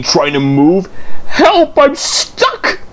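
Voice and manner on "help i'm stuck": panicked call. Acted. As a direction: call out in panic, stuck fast. Daisy jammed on the line.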